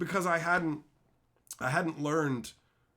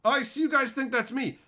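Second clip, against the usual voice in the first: mildly raised, taunting challenge; trash talk; 6 semitones higher, 3 dB louder than usual. Retold or imitated. Confronting Reddit posters who talked about him, trash talk. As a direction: challenge them to a fight, pitched up a little. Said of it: "I just started talking shit to them".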